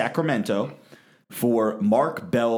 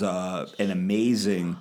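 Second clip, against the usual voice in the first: whispering; 3 semitones lower than usual. Real, not acted. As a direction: drop to a whisper. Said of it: "What are we whispering about?".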